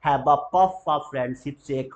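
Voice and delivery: slow, puff stressed; slow drill; slow model sentence. Shown as a demonstration. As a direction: dictate it. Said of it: "उसे बोलते हैं पफ".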